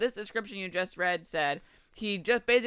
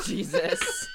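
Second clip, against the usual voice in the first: shocked shriek; 4 dB quieter than usual. Real, not acted. Shocked at the wail.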